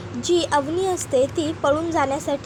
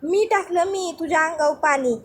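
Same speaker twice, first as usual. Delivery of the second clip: aunt shouting. Acted. Aunt calls out from behind ordering Bhanya to sweep, bossy. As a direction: order him up like a scolding aunt. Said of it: "मागून आत्या ओरडते".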